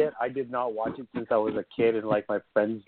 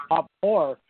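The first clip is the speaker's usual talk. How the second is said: imitating a taken-aback listener, louder; questioning "pop horror?"; mishearing listener; 3 semitones higher, 5 dB louder than usual. Podcaster imitating someone who misheard the site name, taken aback. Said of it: "They're like".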